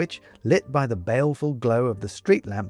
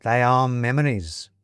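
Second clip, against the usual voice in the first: put-on slow, thoughtful old-school gent, fading toward a hush; musing old gentleman; 3 semitones higher than usual. Cardiman muses on ghosts and memories.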